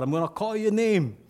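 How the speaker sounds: high barked drill sergeant call, slow at the end; a sergeant shouting at new recruits on the first day; sergeant yelling. Retold or imitated. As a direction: bark the orders like a drill sergeant. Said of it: "clothing sergeant yells out".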